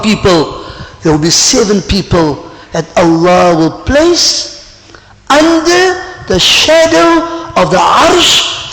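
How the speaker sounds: slow, drawn-out sermon delivery with rising force; impassioned preaching. Acted. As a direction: proclaim it slowly, stretching the key words. Preacher proclaims hadith.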